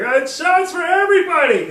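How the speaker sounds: high, loud bellow to the whole bar; drunken shout. Retold or imitated. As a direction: yell it out like a hammered reveler. Hammered man announces shots to the bar.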